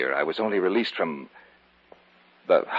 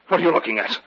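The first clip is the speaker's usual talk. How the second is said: higher and sharper, alarmed; sudden suspicion; 7 semitones higher, 4 dB louder, faster than usual. Acted. David suddenly noticing the old man's gaze, suspicious. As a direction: catch him staring. Paranoia starts.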